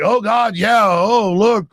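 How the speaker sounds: sneering imitation of phony shock; mocking fake surprise.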